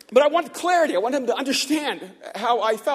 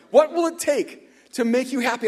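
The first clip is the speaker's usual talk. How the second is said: higher, louder echo of the question, savouring it; wondering repeat; 3 semitones higher, 4 dB louder than usual. Retold or imitated. Neighbour musing on the manager's rare question, in raised wonder. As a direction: marvel at being asked this.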